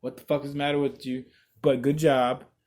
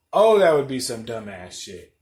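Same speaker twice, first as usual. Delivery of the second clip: 1 louder retake; 3 semitones lower, 4 dB louder than usual. Shown as a demonstration.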